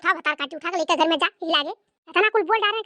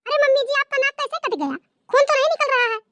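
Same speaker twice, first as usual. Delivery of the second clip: mock alarm; 7 semitones higher than usual. Bride in mock alarm asking about her nose. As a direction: act shocked for the mother-in-law.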